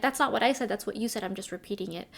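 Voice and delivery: polite calm reply that trails off quietly. Retold or imitated. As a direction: repeat their words back gently, no heat. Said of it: "And I said it very calmly".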